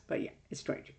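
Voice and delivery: talking with a mouthful of drink; mouth full of drink. Real, not acted. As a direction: speak around a sip of drink. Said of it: "I'm drinking a lot in my mouth".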